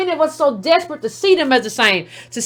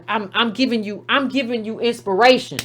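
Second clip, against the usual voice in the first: crafty mock humility; 4 semitones lower, 4 dB quieter than usual. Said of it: "you just try to be crafty".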